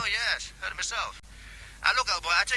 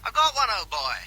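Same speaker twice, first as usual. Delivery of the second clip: repeated louder for a caller who missed it; said again louder down the phone; 4 dB louder than usual. Acted. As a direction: raise the voice so the line carries.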